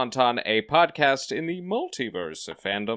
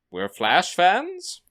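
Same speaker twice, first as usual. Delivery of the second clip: ironic question; 9 semitones higher, 3 dB louder, much slower than usual. Acted. Ironic doubtful show topic.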